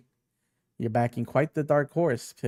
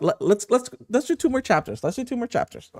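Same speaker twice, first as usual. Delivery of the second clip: excited high shout; 11 semitones higher, 4 dB louder than usual. Real, not acted. Excitedly proposes more chapters.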